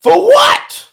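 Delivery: incredulous. Retold or imitated. Preacher answering staff who say someone waits to be baptized, incredulous high shout. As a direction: throw the question up in disbelief. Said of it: "I was like".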